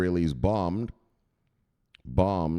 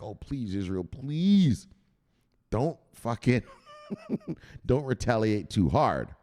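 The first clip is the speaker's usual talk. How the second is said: mock pleading; 3 semitones higher than usual. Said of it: "everyone's freaking out like".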